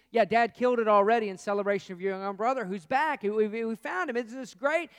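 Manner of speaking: loud, eager servant breaking the news; excited servant. Acted. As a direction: gush the good news to the brother, loud and high.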